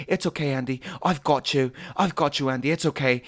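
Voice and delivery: understated retold comforting; gentle reassurance. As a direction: imitate someone calming a panicked kid. Acted comforting of panicking boy.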